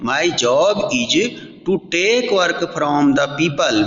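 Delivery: each English word drawn out slowly for the class; slow textbook reading. Shown as a demonstration. Teacher reading the English sentence slowly to students. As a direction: read the sentence slowly, like dictation.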